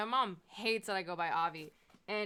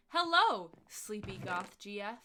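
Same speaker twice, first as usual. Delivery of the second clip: playing a cheery brand rep; mock corporate email greeting; 7 dB louder, slower than usual. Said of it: "companies and they're like".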